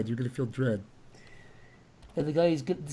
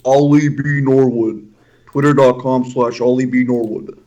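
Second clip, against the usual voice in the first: loud and proud; 3 semitones lower, 7 dB louder than usual. Real, not acted. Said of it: "Say it loud and proud".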